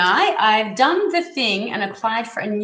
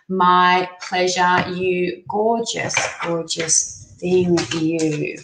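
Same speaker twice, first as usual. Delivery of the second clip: tender thanks; 4 semitones lower, much slower than usual. Real, not acted. Reader thanking a viewer fondly, tender. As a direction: savour each word like a hug.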